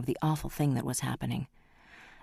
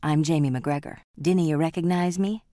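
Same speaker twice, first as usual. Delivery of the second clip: put-on Scottish accent; 3 semitones higher, 5 dB louder than usual. Scotsman reveals himself.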